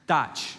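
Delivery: put-on Dotch said short and flat, a toddler's try at Jack. Father imitates daughter saying Jack as Dotch. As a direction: say Dotch like a little girl mangling Jack. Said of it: "She calls him Dotch".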